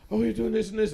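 retold yelling. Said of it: "I'm the one yelling".

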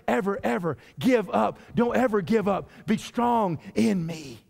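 deliberate pulpit declaration, phrase by phrase; emphatic preaching. Real, not acted. Preaches at full force.

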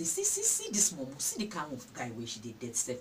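mock a girl's poor choice, sneering; mocking laugh. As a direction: jeer at her like a scornful guy. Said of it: "The guy go come dey laugh you".

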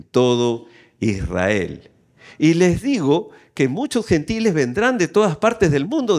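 measured, emphatic public reading; scripture reading. A narrator's reading. Preacher reading Jesus' astonished answer, measured scripture proclamation. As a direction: let each phrase land on the congregation. Reads Bible aloud to congregation.

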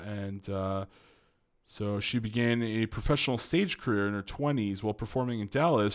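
ordinary delivery

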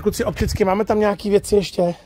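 usual speaking voice

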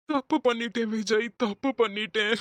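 tearful, remorseful confession; crying. Acted. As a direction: admit guilt through sobs. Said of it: "ஏய், அழாதடா". (அழுதபடி வருந்தும் குரலில்)

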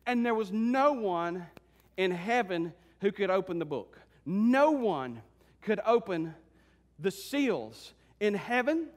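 slow, weighted phrases with long pauses; solemn, forceful pulpit declaration; emphatic preaching. Acted. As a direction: let each place land on its own. Preaches to congregation.

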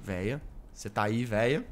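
low, hushed whisper of a call. Real, not acted. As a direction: whisper the question from hiding. Hiding, calling softly.

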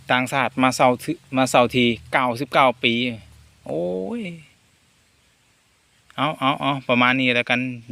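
a Thai speaker attempting Lao, lightly; chatty Lao-style talk from a Korat man; trying a Lao accent. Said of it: "ลองอยากจะพูดภาษา ไอ้ลาวนะครับ". (พยายามพูดสำเนียงลาวแบบคนไทย)

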